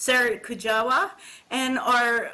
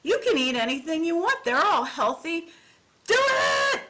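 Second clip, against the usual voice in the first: Robin urging; 6 semitones higher than usual. Retold or imitated.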